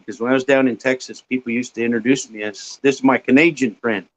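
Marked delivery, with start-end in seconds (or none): 2.8-4.1 a hint of a Texan southern drawl; imitated southern drawl. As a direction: lightly imitate a southern drawl introducing a friend. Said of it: "with their southern drawl".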